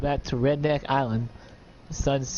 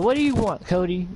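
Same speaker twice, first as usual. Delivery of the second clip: a touch of a higher snap; mild growled demand, pitched up; angry dragon; 5 semitones higher than usual. Acted. Sun to Cody, mildly angry, pitched up.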